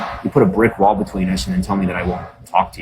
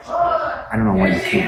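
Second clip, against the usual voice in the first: much higher, slow mocking call; taunting shout; slower than usual. Real, not acted. Streamer taunts critics who can't laugh, high slow shout. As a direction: jeer it up high at the haters.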